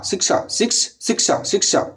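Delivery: whispered shiksha. Shown as a demonstration. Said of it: "सिक्स ना बोलकर शिक्षा बोलेंगे".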